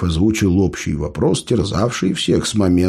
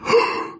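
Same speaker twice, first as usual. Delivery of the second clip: quick breathless gasp of awe; sharp gasp. Acted. Gromila gasps at the dragon news, sharp gasp. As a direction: suck in air in amazement. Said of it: "ахнул Громила".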